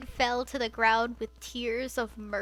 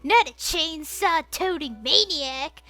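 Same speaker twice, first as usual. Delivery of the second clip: berating; 5 semitones higher, 5 dB louder than usual. Acted.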